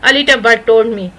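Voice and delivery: very slow delivery; slow idiom. Shown as a demonstration. Teacher shows students the short reply very slowly. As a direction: say it slowly as the model line. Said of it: "اتنا سا sentence کہہ کے".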